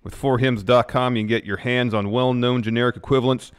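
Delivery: emphatic sponsor pitch; ad read. Real, not acted. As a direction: drive home the selling points. Co-host continues sponsor ad.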